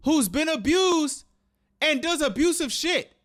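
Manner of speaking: heated, exasperated outburst; indignant, punching the key words; genuinely mad. Real, not acted. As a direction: rant in real anger and disbelief. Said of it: "This shit is making me mad".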